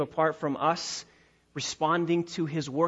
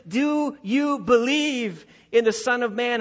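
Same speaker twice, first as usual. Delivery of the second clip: higher, louder earnest question as Jesus; voicing Jesus; 6 semitones higher, 4 dB louder than usual. Jesus asking the healed man to believe, earnest higher question. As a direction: ask it as Jesus pressing the man.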